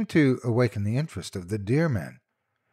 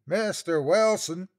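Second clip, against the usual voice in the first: high, slow, drawn-out call; second searcher calling; 10 semitones higher than usual. A narrator's reading. Another searcher calling the lost man's name, slow call. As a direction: stretch the name out across the hills. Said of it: "a different voice than the first".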